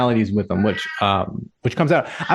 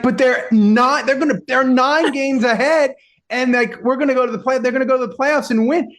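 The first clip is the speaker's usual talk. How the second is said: mock protest; 8 semitones higher than usual. Husband recounts his own eager high protest to wife. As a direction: insist they'll surely win, high and eager. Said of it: "And I'm like".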